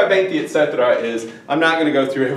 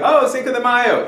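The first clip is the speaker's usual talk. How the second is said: high, mock-excited crowd reaction; imitating everybody's exclamation; 11 semitones higher, 4 dB louder than usual. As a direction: play everyone's eager, mistaken thought. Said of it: "everybody's thinking".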